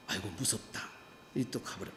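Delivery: a low, faint imitation of a scared passerby; mock fright, very low and soft. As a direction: mutter it like someone too scared to ring.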